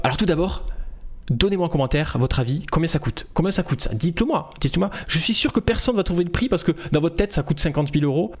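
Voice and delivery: animated, teasing call for comments; lively video-host patter; demo of lively voiceover. Shown as a demonstration. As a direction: goad viewers to guess, with upbeat insistence. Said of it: "Je vais vous la faire".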